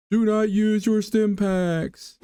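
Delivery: slow, stern warning; stern instruction voice. Pretend. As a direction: lay down the rule slowly. Voicing game's stern instruction.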